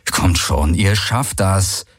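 inward urging, lingering at the end; inner thought. A narrator's reading. Galen silently urges Uru and Ara on, inner thought. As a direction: think it as a private plea, stretching the last words. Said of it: "dachte er, an Uru und Ara gerichtet".

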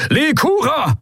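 high, desperate yell; roaring a name. A narrator's reading. Admiral yelling to his friend on the doomed ship, high desperate roar. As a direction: shout her name across the bridge. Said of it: "brüllte Teleos".

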